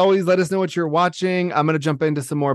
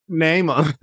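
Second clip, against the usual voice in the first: put-on Southern accent. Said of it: "It's the Southern accent".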